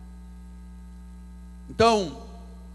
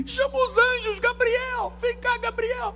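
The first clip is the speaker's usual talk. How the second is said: high squeaky mock panic; a frightened, fussing caricature calling angels; a very high, hammed-up frantic voice; mock panicky God; 14 semitones higher than usual. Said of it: "mocking a panicking God".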